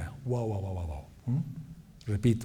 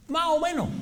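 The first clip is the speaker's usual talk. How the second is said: high Andalusian "más o menos", final s dropped; Andalusian-style shrug of a phrase, pitched high; Andalusian accent; 12 semitones higher, 3 dB quieter than usual. Acted. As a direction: say "ma o meno" with an Andalusian lilt.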